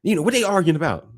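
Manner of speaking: high, puzzled mock question; alarmed onlookers. Visitors asking about the sisters' noise, high-pitched puzzlement. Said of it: "They be like".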